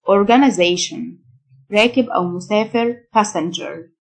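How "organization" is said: organization the American way, "-uh-ZAY-shn"; American pronunciation. Shown as a demonstration. Teacher contrasting accents for learners, American pronunciation of organization. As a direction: say organization in American style, short vowel before "zation". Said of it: "النطق الأمريكان".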